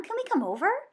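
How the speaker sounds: put-on high, pleading kid question; eager begging. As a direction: beg to be invited. Kids begging.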